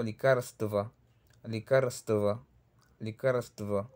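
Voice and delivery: likarstva with r-s-t-v run together; measured likarstva, cluster fully sounded; Russian word demo. Shown as a demonstration. Teacher modelling Russian medicamento, careful likarstva. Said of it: "La palabra medicamento".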